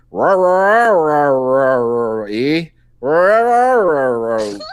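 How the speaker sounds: mock Yeti roaring. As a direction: bark it out like a playful Bigfoot. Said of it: "he would speak Yeti now".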